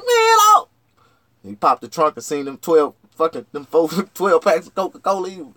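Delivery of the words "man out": shouted order. Retold or imitated.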